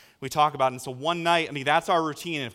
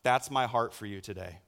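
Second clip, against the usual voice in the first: God speaking tenderly; 5 semitones lower than usual. Acted. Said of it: "like God was saying".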